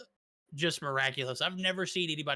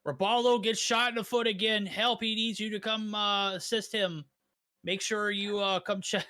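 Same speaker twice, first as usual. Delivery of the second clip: hyped-up alert read, a bit higher; clickbait notification voice; 4 semitones higher than usual. Pretend. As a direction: read it like a breathless push notification. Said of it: "is that a Rapallo clickbait notification".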